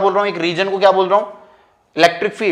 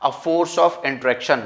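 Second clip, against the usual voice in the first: unhurried, word-by-word definition; slow dictation; much slower than usual. Real, not acted. Teacher giving students a definition to write down, dictated slowly. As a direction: dictate slowly for note-taking. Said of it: "definition लिख ले".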